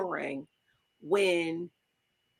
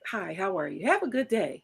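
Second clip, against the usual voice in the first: softer, gentle friendly greeting; gentle hello; 3 semitones lower, 4 dB quieter than usual. Shown as a demonstration. Showing her friend how she greets men, soft and gentle. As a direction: greet a stranger gently, in passing. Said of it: "gently putting my hand on your back".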